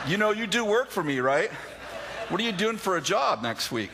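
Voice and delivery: high, amused through laughter; laughing aside. Real, not acted. Teasing the audience about the boss: laughing aside. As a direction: joke it out while laughing. Joking after boss's rebuke.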